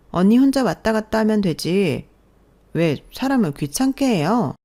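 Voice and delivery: needling complaint. Acted. Sister-in-law scolding her brother's wife, accusing. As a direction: pick at her, whining and accusing.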